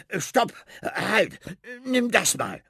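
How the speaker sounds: high, sudden stop call; sudden interruption. Acted. Rat suddenly stopping Finn at the shelf, high and urgent. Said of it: "unterbricht ihn die Ratte plötzlich".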